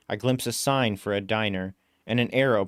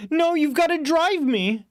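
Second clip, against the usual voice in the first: desperate yell, much higher and louder; desperate yell at the stubborn cabbie; 5 dB louder than usual. Acted. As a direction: plead at full voice. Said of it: "I yell".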